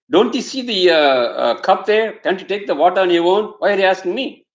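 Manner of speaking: put-on mother scolding her child in irritation; irritated mother. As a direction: snap at the child for asking. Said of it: "she gets angry too".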